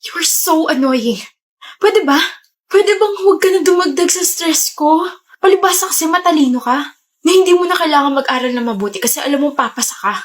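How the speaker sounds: put-on stressed student snapping at caring boyfriend, angry; angry outburst. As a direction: let the stress boil over at him. Stressed girlfriend lashes out.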